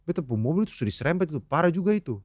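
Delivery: quick imitated Ambonese accent; lightly voiced Ambonese speaker. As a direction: rattle it off with an Ambonese lilt. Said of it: "Pakai logat Ambon".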